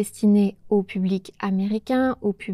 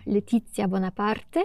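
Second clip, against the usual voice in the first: Corsican accent; 4 dB quieter than usual. Shown as a demonstration. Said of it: "avec l'accent corse".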